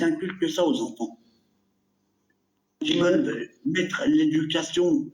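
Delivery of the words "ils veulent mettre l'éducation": slow, slightly lisped words from a brace; lisping. Real, not acted. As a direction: lisp from a dental brace. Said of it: "je zozote, hein, j'ai un appareil".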